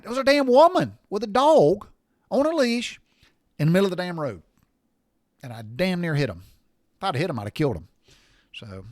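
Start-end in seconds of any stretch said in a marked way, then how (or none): 0.0-4.4 high, loud, insistent protest; insist, exasperated, that it really happened; insistent exclaim. Retold or imitated. Driver insisting to disbelieving passengers, loud high protest. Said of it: "I'm like".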